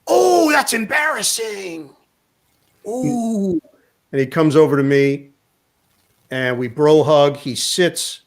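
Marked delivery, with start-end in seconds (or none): 0.0-3.6 high, slow, sheepish oh; embarrassed. Retold or imitated. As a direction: cringe at your own mix-up. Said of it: "he goes".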